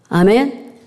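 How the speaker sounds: ordinary talk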